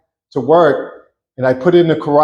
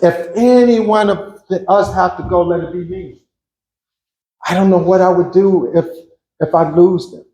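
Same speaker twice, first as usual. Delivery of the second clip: selfish prayer; 3 semitones higher than usual. Retold or imitated. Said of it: "That's what I said to the Lord".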